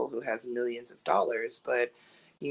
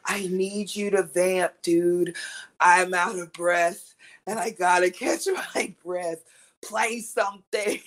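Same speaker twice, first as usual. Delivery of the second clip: urgent breathless request; 4 semitones higher, 4 dB louder than usual. Retold or imitated. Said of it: "I said".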